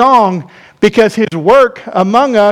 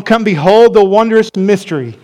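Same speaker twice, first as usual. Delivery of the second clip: hymn lyric recited; 4 semitones lower than usual. Acted. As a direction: let each line settle, reverent and low. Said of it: "You've heard it in song".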